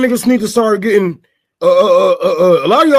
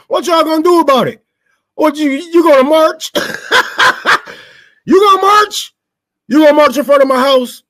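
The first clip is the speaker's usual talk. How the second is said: mocking rich elite; 6 semitones higher than usual.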